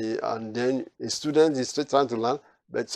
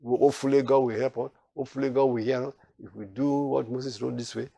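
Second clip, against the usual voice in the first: unsure hedging; 5 dB quieter than usual. Retold or imitated. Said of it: "always try to say".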